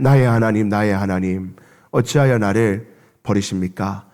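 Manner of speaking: low, hushed, forsaken plea; anguished cry to God. Acted. Jesus on the cross crying out to his Father, low and hushed. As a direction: pray it out like a broken, abandoned son. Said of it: "하나님 앞에 절규하였습니다".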